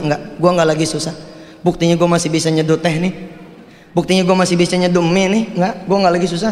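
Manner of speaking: quick, understated tearful insisting; mild teary reassurance to himself; lightly tearful self-comfort. Acted. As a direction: talk yourself out of sadness, a touch teary. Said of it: "Sambil nangis tuh dia".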